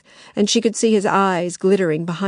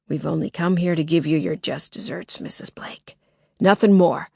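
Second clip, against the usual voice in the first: harsh smoker's voice, menacing; menacing intruder. Acted.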